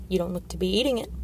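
talking through a mouthful; chewing while speaking; mouth full. Acted. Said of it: "said through a mouthful of eat".

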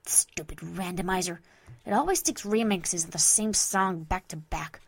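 a touch of grumbling; mild groaning annoyance. Acted. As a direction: grumble lightly at the music player. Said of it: "Vinyl lets out a small groan".

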